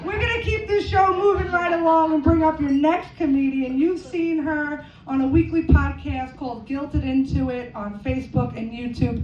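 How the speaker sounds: emcee building to the name; show host introduction. Real, not acted. Introduces next comedian.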